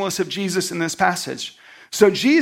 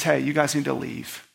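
softly spoken, calm request; mild, soft-voiced assurance; gentle; 3 semitones lower, 5 dB quieter than usual. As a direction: quietly send people out without scolding. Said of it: "He's gentle".

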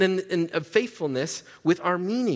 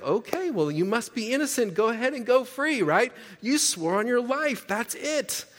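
mock-sarcastic cop; 7 semitones higher than usual. Sarcastic cop lets her go.

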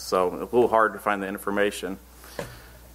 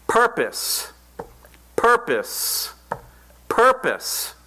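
high ringing fervent cry; 13 semitones higher, much slower than usual. Retold or imitated. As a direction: proclaim it with fire. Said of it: "Rolf said with a very fervent tone".

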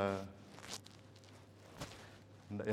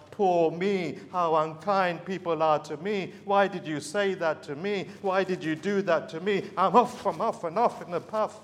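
higher, louder mock whine of a sorry-for-himself moaner; a preacher mocking self-pity, higher and louder whining; whiny self-pity; 4 semitones higher, 4 dB louder than usual. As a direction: ham up the poor-me complaint. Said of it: "self-pitying person".

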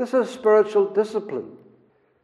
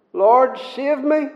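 pleading prayer; 4 semitones higher than usual. Retold or imitated. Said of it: "doesn't he have to say".

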